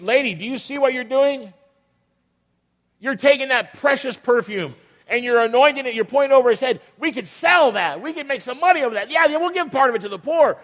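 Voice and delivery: lightly voiced greedy disciple; indignant disciples. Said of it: "The disciples got indignant and they said".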